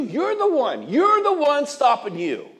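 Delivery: high, loud, slow driving declaration; emphatic shout. Real, not acted. Speaker confronts audience about holding themselves back, shouting. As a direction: call the crowd out like a preacher.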